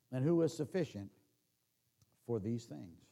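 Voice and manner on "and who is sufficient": normal talking voice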